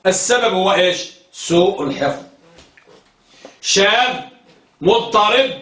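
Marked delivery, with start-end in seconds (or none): 4.8-5.5 مضطرب said mudtarib, damma on the meem and kasra on the ra; careful pronunciation. Shown as a demonstration. Teacher to students, spelling out the vowels of مضطرب. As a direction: say مضطرب as mudtarib, ending in -rib not -rab. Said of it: "بضم الميم وكسر الراء".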